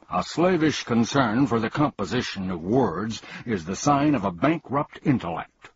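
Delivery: humbug roaring. Acted. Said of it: "roared the humbug".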